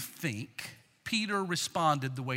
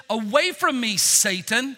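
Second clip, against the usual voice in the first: raised, commanding voice; firm order; 3 semitones higher, 6 dB louder, slower than usual. Acted. Jesus speaking directly to the devil, commanding. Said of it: "Jesus ordered".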